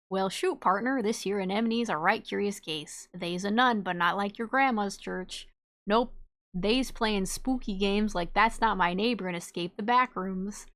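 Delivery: hammed-up Southern cowboy reading; playful put-on Southern twang, cracking up by the end; Southern cowboy accent. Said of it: "when the speaker decides to be a cowboy".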